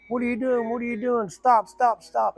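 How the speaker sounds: lightly voiced wife crying stop; panicked pleading woman. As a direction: beg him to stop. Liz pleads in the dream.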